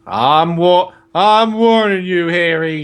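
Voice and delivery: lightly voiced stern uncle; a touch of menace, leaning on the warning; Uncle Vernon. Uncle taking Harry aside, mildly threatening. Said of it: "Uncle Vernon and Harry".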